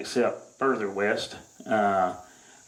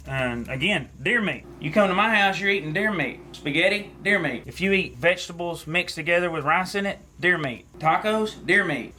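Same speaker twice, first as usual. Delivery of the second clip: higher, lively list of foods; excited listing; 4 semitones higher than usual. Acted. Hunter showing off his freezer full of deer meat. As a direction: pitch each food up then land deer meat.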